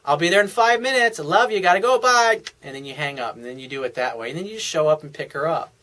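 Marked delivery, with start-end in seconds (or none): 0.0-2.4 higher-pitched, lightly sweet sign-off; acted sweetness. Boyfriend ending a phone call to his girlfriend, playfully sweet. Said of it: "you're being a sweet, you're not being a dick".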